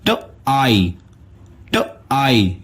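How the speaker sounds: ट आई said as ट then आई; sounds split apart. Shown as a demonstration. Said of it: "इसका sound बनेगा".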